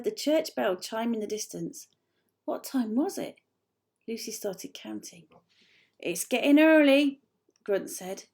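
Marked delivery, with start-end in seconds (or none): 6.0-7.2 urgent creaker. A narrator's reading. Creaker urging departure.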